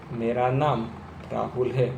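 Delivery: मेरा नाम राहुल है said slowly and evenly, no stammer. Shown as a demonstration. Coach showing students the slow, smooth way. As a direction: take मेरा नाम राहुल है calmly, a short pause before राहुल. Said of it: "यदि मैं slow बोलने जाऊँगा".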